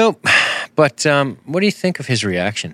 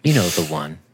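farmer's rage; 3 semitones lower than usual. Acted. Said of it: "this is farm rage right here".

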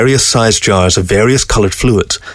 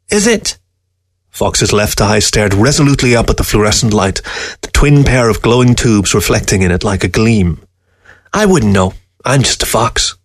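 a scornful dead fox sneering at the man; sly fox voice. Acted. Fox character voice.

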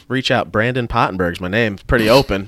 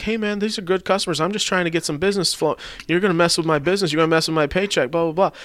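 mock pleading Keith; 8 semitones higher, faster than usual. Keith voiced on the phone.

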